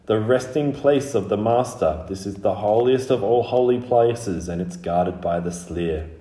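lightly intoned ancient guardian; solemn proclamation by a collective spirit; old, dry voice. Acted. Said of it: "very old and very dry".

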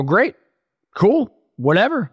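high, breezy and cocky; breezy bravado. Retold or imitated. A retold addict tells his friend he'll take the bet, high and cocky.

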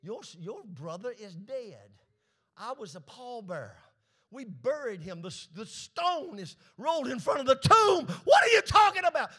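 scoffing neighbor, rising to a shout; mocking doubter. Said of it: "most folks would have said".

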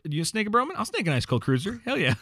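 high, pumped-up bro voice offering a beer; offering a beer to a brother, a hammed-up bro voice; bro dude quote. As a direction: hype it up like a party bro. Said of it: "I'm just like".

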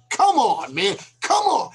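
exasperated. Real, not acted. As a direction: throw up your hands. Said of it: "That's calling out the incompetence".

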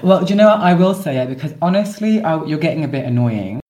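hammed-up indignant snap; mock outburst. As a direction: pitch jumps up as the row begins. Staged podcast quarrel erupts.

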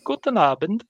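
a hint of a chirpy German milkmaid; cheerful milkmaid. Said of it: "cheerful, like, kind of, like, country milkmaid".

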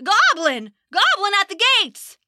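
a guard warning the castle of a goblin; alarmed shout. Acted. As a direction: raise the alarm at the gates. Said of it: "cried out in alarm".

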